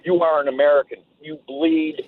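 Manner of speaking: normal talking voice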